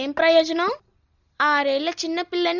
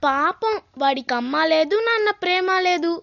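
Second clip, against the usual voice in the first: mock pity. Child throws grandmother's usual excuse back at her, mock pity. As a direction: stretch the words in childish sarcasm.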